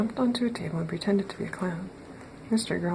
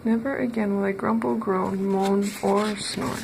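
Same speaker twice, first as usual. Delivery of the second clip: solemn promise; 4 dB louder than usual. Acted. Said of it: "made a solemn promise".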